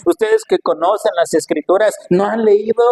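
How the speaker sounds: mounting rebuke to supposed experts; reproachful challenge. Acted. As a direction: chide the teachers who should know. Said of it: "como que les estuviera diciendo".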